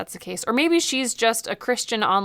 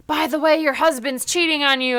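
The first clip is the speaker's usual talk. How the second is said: raised, louder casual announcement; ghostly gossip; 4 semitones higher, 3 dB louder than usual. Pretend. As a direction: drop the news like a passing busybody. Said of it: "and be like".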